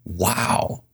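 a soft, quiet wow of awe; gazing in awe at something ordinary; hushed wonder. Shown as a demonstration. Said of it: "Look at it with a little bit of wonder".

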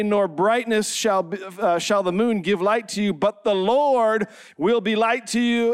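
slow, measured pulpit reading; scripture reading. Acted. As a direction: read out the verse with weight on each phrase. Reads scripture to congregation.

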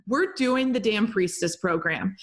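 bossy guides barking orders in jest; mock stern guides. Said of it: "my guides ... were like".

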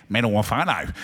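"Metamorphano" said again through a chuckle; laughing repeat. Shown as a demonstration. Pastor echoes the congregation's Aussie-accented metamorphano, laughing. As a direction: laugh as you echo "Metamorphano" back. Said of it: "Aussie twang to it".

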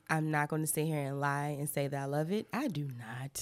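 low register with vocal fry. Real, not acted. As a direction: drop into a low, fried voice. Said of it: "It was, it was a low register, and a little bit of vocal fry".

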